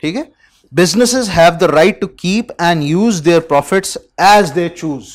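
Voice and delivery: loud, deliberate textbook read-out; reading aloud. Acted. Teacher reads the business text to students, reading aloud. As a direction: read it out firmly to the class.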